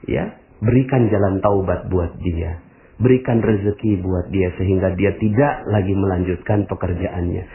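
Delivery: soft, low sincere prayer for him; demonstrating a gentle prayer under the breath; quiet prayer. Shown as a demonstration. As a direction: murmur a humble prayer. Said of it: "Gimana cara mendoakannya".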